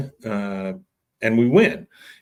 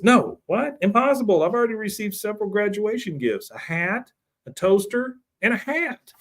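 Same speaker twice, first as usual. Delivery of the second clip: much higher, quavery mock old lady; 10 semitones higher than usual. Retelling the old lady's disbelief, high old-lady voice. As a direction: pitch it way up like a fussy old lady. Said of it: "the old lady says".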